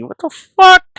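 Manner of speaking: loud, high, disgusted shout; shocked shout. Real, not acted. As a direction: yell it in disbelief. Reacting to gross fetish.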